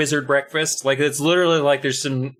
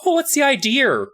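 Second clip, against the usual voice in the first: high Scottish-accent imitation; exaggerated Scottish accent; mock young Scottish woman; 12 semitones higher than usual. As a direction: imitate a Scottish lass, pitched way up. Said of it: "imagine a young Scottish woman being like".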